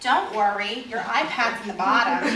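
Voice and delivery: teasing reassurance breaking into laughter; fake-soothing while holding back a laugh; mock reassurance, laughing. Friend handing over a box of snakes, laughing mock reassurance. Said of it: "And I say".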